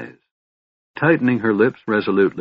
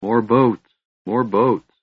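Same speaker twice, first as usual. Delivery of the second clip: moaning; 3 semitones higher, slower than usual. A narrator's reading. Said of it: "Flint moaned".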